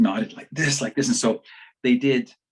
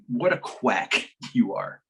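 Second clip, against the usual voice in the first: laughing scoff; slower than usual. Retold or imitated. Friend mocks the doctor.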